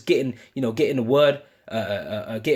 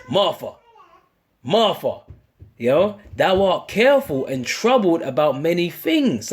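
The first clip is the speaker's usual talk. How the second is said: slow, calm call of her name; lightly voiced Lord, slower; bass voice of the Lord. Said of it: "he had that bass".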